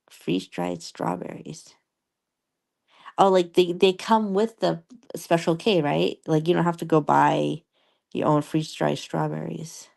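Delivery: slurred a little, mouth numb from dental work; groggy from anesthesia. Real, not acted. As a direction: talk around a fresh temporary crown. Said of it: "I got a temporary crown in my mouth".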